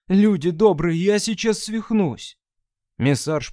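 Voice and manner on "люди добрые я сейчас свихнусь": losing it. Acted. Crew member losing his nerve.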